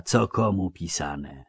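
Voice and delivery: slow, brooding dwarf muttering to himself; slow musing. Acted. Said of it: "dodał cicho". (wolno, w zadumie)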